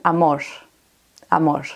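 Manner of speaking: amor with the final R softened to a sh-like hiss; Spanish amor, R turned to sh. Shown as a demonstration. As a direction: end amor on a breathy sh instead of R. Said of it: "la pronuncian como una sh".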